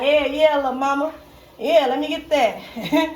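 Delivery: flirty Southern accent, lightly put on; sexy country accent. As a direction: sweet-talk with a slow country accent. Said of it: "They got a fucking sexy ass accent".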